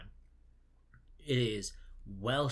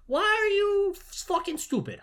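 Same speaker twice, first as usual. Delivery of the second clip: mock furious yell; 9 dB louder than usual. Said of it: "that's basically what it comes across as".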